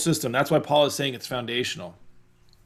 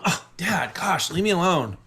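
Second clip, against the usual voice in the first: put-on whiny teen; 5 semitones higher than usual. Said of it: "Instead of, I say".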